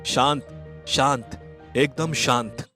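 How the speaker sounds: slow, calming hush; calm someone down, drawing the words out; soothing. Acted. Soothing a crying wife.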